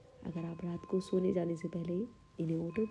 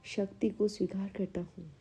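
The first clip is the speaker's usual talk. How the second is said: measured affirmation delivery with long pauses; unhurried meditation-guide reading; guided affirmations. Acted. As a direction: state each affirmation calmly, leaving room to repeat it. Leads guided self-esteem affirmations.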